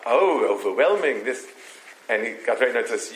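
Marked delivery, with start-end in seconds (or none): 0.1-1.5 campers imitating an Englishman's accent; English accent. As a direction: ape the English counselor's accent, gushing. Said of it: "chiming in with the English accent".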